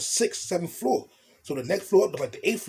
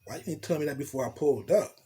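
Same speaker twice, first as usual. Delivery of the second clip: voicing the woman higher, scolding and worried; a lightly voiced, higher fretful woman; girl's worried voice; 5 semitones higher than usual. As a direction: play the anxious girlfriend fussing over him.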